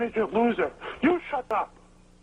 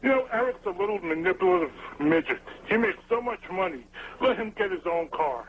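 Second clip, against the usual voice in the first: lower, rough-edged tough-guy voice; gruff voice; 5 semitones lower than usual. Retold or imitated. Caller doing a gruff Johnny-style impression, lower and rough. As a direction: growl it out like a gravel-voiced goon. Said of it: "with his gruff voice".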